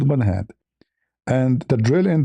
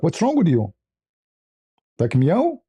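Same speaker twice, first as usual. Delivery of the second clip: sassy cat; 4 semitones higher than usual. Retold or imitated. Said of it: "She came to me like".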